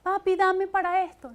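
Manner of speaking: put-on high, loud little kid asking dad for money; preacher voicing a child asking father for money; child begging dad. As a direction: plead like a small child tugging at dad. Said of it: "tu papá era un papá que tú le decías".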